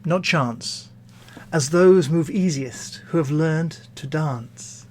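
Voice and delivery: measured, formal verse reading; poetry recitation. Acted. Opening a poetry reading with Pope's verse, poetry recitation. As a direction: recite it softening toward the gentle lines.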